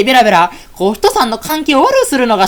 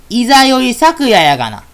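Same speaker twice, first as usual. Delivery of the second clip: louder, slower repeat; 2 semitones higher, 4 dB louder than usual. Acted. Repeating the name slowly and louder to a friend who didn't catch it. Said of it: "え？".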